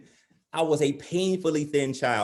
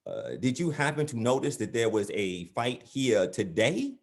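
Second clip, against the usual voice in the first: hesitant, leading question; 3 semitones lower than usual. Acted. Timid son asks his dad.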